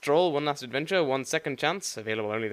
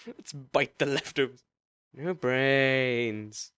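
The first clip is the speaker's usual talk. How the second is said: zombie drawl; much slower than usual. Acted. Zombie voice, slow.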